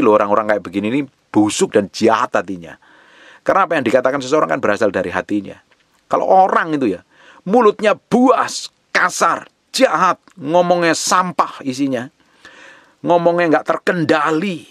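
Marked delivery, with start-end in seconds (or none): 6.1-14.7 high, punched sermon list; raised-pitch pulpit rebuke; impassioned preaching. Real, not acted. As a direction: hammer each vice as its own phrase. Preacher lists vices of tongue.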